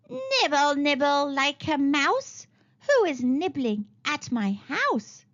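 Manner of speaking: lightly voiced old witch, slow and sing-song; a hint of a croaky crone, slowed down; croaking witch. The old witch calls to the children nibbling her house, slow and croaky. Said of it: "she croaked".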